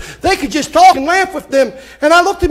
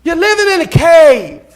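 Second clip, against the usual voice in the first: louder and higher, hammering living; preached shout; 4 semitones higher than usual. Shown as a demonstration. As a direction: call it out to the whole church. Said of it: "repeated louder".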